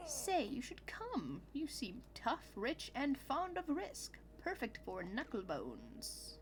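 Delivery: slow, lightly voiced sly invitation; inviting game character. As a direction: draw the listener into a wager, slowly. Voices game's dialogue.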